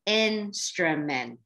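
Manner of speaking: slow, measured 'Instrument'; say it slowly. Shown as a demonstration. Teacher has readers say the word with her, slowly. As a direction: say 'Instrument' slowly for others to repeat. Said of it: "Can you say that word with me?".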